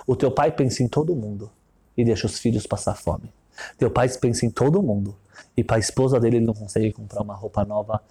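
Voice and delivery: rich man's voice. Retold or imitated. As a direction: lay out his creed low and smug. Rich man's long cynical speech.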